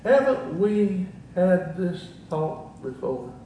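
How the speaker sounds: slow, measured imitation of Dad; deliberate parental reminder, lightly acted; father's reproving question. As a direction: lightly voice a stern father, word by word. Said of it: "He would look at me and say".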